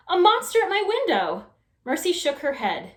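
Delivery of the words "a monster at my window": high, loud scared scream; frightened shout. Acted. Baby seeing the pig at her window, screaming in fright. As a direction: shriek at the shape in the window. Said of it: "shouted Baby".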